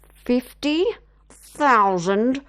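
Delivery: emphatic ultimatum; firm final offer. Acted. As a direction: lean in and insist.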